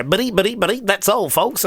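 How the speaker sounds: cartoon catchphrase. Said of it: "they can go".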